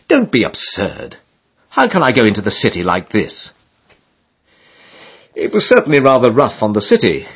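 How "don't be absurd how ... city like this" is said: a lightly voiced affronted George; indignant George. George protesting about shaving.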